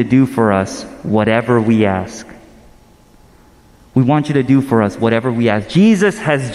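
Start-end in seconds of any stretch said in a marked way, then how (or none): 3.9-5.7 brisk, run-together repeat of the request; quick repeated quote. Acted. Preacher repeats the disciples' request to the congregation, quickly. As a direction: rattle the request off quickly, without pauses.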